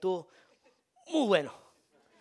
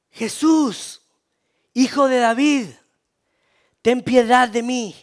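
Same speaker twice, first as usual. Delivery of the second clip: high, very loud cry for mercy; pleading shout; 7 semitones higher, 12 dB louder, slower than usual. Retold or imitated. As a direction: shout out desperately to be heard. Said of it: "y empezó a gritar".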